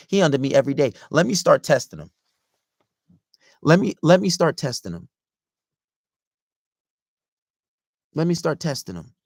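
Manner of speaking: rising into a high, loud gripe; imitating her annoyed inner monologue; mock exasperated girlfriend. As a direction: act out a fed-up girlfriend, building in pitch. Acting girlfriend's thoughts about clingy boyfriend.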